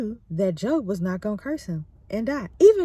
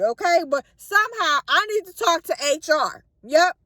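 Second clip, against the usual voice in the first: louder, higher, fed-up demands; fed up, demanding answers; upset; 5 semitones higher, 4 dB louder than usual. Retold or imitated. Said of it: "Job get upset".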